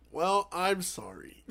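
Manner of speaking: friend's hammed-up apology, slow and shouted; mock shouted apology. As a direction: bellow the apology, dragged out. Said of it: "He goes".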